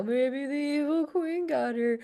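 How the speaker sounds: slow, sleepy mumble; lightly voiced drowsy dwarf. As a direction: say it half asleep, slowly. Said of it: "I love his delivery".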